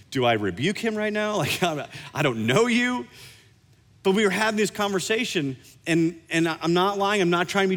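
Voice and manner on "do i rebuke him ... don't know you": laughing unsure. Retold or imitated. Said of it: "I was like".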